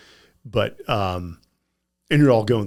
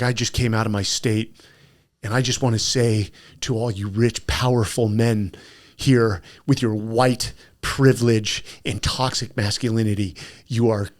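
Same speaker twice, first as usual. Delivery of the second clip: retold tirade; 4 dB louder than usual. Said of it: "just went on a tirade".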